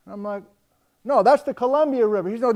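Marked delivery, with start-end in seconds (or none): 1.0-2.3 loud correction called over the wind; shouting over wind. Retold or imitated. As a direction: shout back, insisting. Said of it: "we're shouting back and forth".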